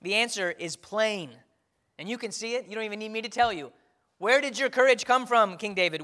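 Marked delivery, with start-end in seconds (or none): 4.2-6.0 1 rising preacher's question. Acted. Rhetorical question to congregation.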